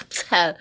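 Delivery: ABSA let out as a small sneeze; like a little sneeze. Shown as a demonstration. Teacher likens it to sneezing, sneeze-like ABSA. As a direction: puff ABSA out lightly. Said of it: "it's like a little sneeze".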